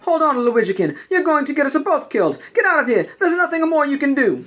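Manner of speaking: high, firm master's voice; commanding Jedi master. Acted. Master orders his apprentice to leave him, high and firm. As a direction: order him away to save himself.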